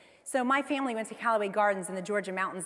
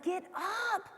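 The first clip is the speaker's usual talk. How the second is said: urging herself; 10 semitones higher, 4 dB quieter than usual. Retold or imitated. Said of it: "I'm like".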